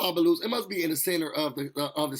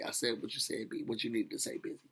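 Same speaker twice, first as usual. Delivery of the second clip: younger self voice; 7 semitones lower, 10 dB quieter than usual. Retold or imitated. Younger self speaking through her.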